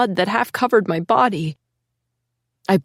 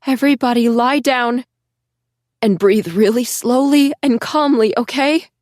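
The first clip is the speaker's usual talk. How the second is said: choked out; 5 semitones higher, 4 dB louder than usual. Acted. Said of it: "I managed to choke out".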